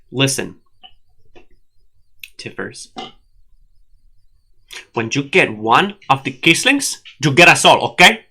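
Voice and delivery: playful Ricky Ricardo voice, a touch hammed; Ricky Ricardo accent. Host to co-host, light mock Ricky Ricardo accent. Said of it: "that was Ricky Ricardo from I Love Lucy".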